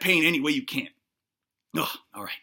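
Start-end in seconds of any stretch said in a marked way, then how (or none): 1.7-2.3 low, fed-up ugh; frustrated groan. Real, not acted. Annoyed host groaning before his rant. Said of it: "I'm getting a little upset".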